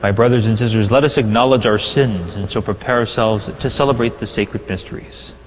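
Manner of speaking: usual speaking voice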